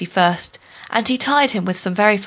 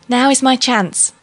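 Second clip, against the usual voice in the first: scheming thought; 4 semitones higher, 4 dB louder than usual. Acted. Anansi thinks to himself.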